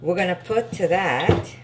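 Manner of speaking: mumbled, slurred words; marbles in mouth. Real, not acted. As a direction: talk like marbles in your mouth. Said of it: "I sound like I've got marbles in my mouth".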